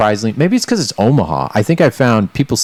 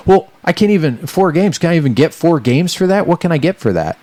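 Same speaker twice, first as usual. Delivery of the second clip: imitating the guy, much higher and whining; whiny indignant customer; 9 semitones higher than usual. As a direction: play the offended customer pleading over his games, pitched up high. Indignant customer haggling over games.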